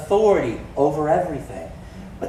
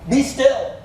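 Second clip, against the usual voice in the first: raised, commanding call to the wind; rebuking the storm; 6 semitones higher, much slower than usual. Acted. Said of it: "He rebuked the wind and said".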